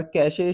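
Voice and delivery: "कैशे" said as two syllables, kai-shay; pronunciation demo. Shown as a demonstration. Teacher showing learners how it is pronounced, pronunciation demo of "कैशे". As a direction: sound out "कैशे" with an "ay" ending. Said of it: "इसकी सही pronunciation है".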